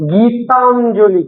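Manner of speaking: গীতাঞ্জলি drawn out, syllable by syllable; slowly. Shown as a demonstration. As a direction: say গীতাঞ্জলি slowly so pupils hear its parts. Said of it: "আমি আরেকটু আস্তে আস্তে বলবো". (গীতাঞ্জলি আস্তে আস্তে, টেনে)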